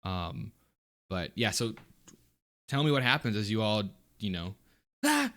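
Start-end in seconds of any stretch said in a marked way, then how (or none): 5.1-5.3 short high "ah" of alarm; startled yelp. Acted. Player miming the mold hitting them, startled yelp. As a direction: give a quick high cry. Acting out being hit by mold.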